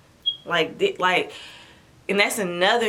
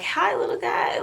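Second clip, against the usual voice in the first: tender whisper; 12 semitones higher than usual. Retold or imitated. Greeting her newborn son on her chest, tender whisper. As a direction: breathe it to the newborn.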